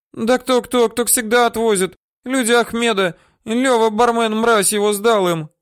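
high, loud agitated blurting; frightened woman spilling names. Acted.

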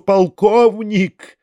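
drawn-out high wailing call; wailing cry. A narrator's reading. Foma crying out to the colonel, drawn-out wail. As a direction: howl the word out in protest. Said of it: "возопил Фома".

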